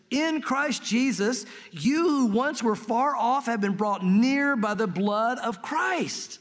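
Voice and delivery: very slow, emphatic Bible reading; scripture reading. Acted. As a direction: proclaim the verse slowly, weighting each phrase. Reads scripture aloud.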